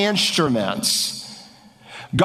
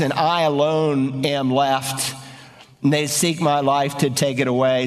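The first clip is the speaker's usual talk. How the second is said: lonely lament; 6 semitones lower than usual. Acted. Preacher rereading Elijah's lonely words, low and mournful. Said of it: "he says it twice".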